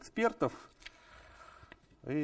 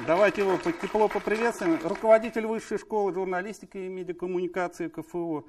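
slightly raised, projected presenter voice; formal announcer introduction; 3 semitones higher, 3 dB louder than usual. Real, not acted. Host presenting invited experts to audience, formal announcer introduction. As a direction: announce names and titles to the hall.

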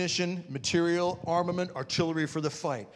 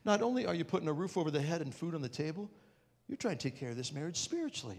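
softer, tender wife's words; 6 dB quieter than usual. Retold or imitated. Wife praising her husband, gentle and soft. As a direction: say it gently, full of admiration. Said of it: "she said".

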